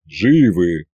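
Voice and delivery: low, tired soldier's report; a tired officer's clipped answer; weary. Acted. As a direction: salute it out, worn out. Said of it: "Устало козырнул мне Колымдай".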